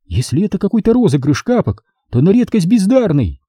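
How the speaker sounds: high woman's voice, indignant; a high, bewildered woman denying it; Sonya, baffled. A narrator's reading. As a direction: protest it, pitched high. Sonya tearful and offended.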